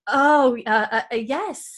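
high, flustered stammer; Louise. Retold or imitated. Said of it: "And Louise is like".

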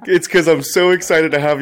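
laughing through the words; laughing while talking. Real, not acted. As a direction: laugh as you speak. Host laughs at being teased.

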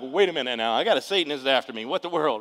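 loud acted protest; alarmed reaction. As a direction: play a startled objection, loudly. Acts out alarm at being pursued.

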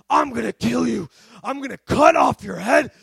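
put-on possessed man's threat in a Jamaican accent. Possessed man at the back threatening the pastor, Jamaican accent. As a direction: imitate a Jamaican demoniac, punching the threats. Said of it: "only really makes sense with the Jamaican accent".

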